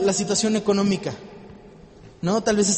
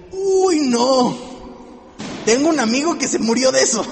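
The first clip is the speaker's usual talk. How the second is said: mock gloomy friend; 4 semitones higher, 4 dB louder than usual. Mocks a friend's gloomy reply.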